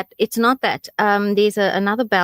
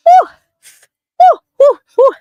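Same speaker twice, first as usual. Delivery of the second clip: pained high ooh; 11 dB louder, much slower than usual. Real, not acted. Reacting to chili burn.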